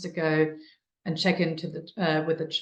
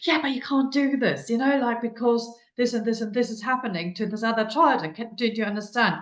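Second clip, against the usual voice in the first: put-on higher, hurried lecturing of a child; lecturing adult; 5 semitones higher than usual. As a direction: rattle off reasons at the child. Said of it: "we're always so quick to going like".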